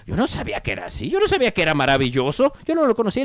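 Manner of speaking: quick, swooping mock disbelief; mock astonishment. Funeral guest hearing the dead man praised, mock astonished. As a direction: imitate a baffled mourner, pitch swooping up and down.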